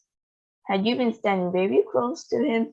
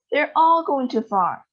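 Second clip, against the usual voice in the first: high, raised alarm; worried cry; 7 semitones higher, 4 dB louder than usual. A narrator's reading. A boy crying out as the grandparents shrink. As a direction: cry out in worry. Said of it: "cried Charlie".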